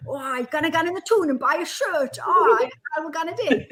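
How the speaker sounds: a hint of a husband's Geordie chant; wife recalling her husband's bridge chant in light Geordie; Geordie accent. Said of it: "That's what he would say".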